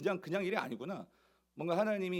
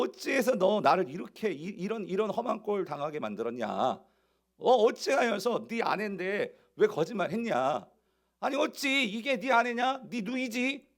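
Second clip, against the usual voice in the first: Pharaoh's rebuke; 4 semitones higher, 4 dB louder than usual. Acted. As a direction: scold him like an offended king. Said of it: "라고 바로가 말을 하는 거예요".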